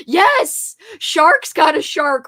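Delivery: loud, high, slow chant; excited cheer. Real, not acted. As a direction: cheer it like a slogan. Cheering shark catchphrase.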